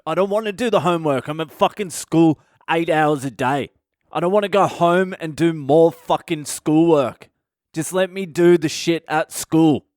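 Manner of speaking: hammed-up bratty student whine; whiny student. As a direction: complain like a fed-up schoolkid. Student whines back at teacher.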